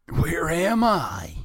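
high, slow, drawn-out groggy question; hammed-up woozy hero; dazed captive. A narrator's reading. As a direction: wake up dizzy and confused, pitched high. Dazed captive turtle waking up.

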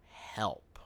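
tiny whispered cry for help; mock-pitiful whisper to mommy; whispered plea. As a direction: whisper it like a hurting little boy. Child pleading to his mommy.

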